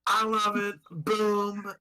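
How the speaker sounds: lightly voiced Trump rambling; a hint of Trump boasting; Donald Trump impression. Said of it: "that was Donald Trump".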